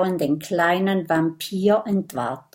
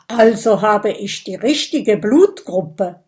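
loud, self-satisfied announcement; proud; 6 dB louder than usual. Acted. Dragon learning his blood matches, proudly. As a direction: say it with pride. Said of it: "ist stolz und sagt".

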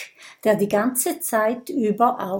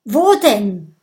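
louder eager question; calling out; 6 dB louder than usual. Acted. Friends all asking at once, loud. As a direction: call out in unison. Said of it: "rufen sie wie aus einem Mund".

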